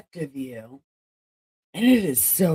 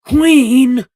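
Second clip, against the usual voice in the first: pompous announcer; 3 semitones higher, 5 dB louder, slower than usual. Pretend. Grandly announcing own titles.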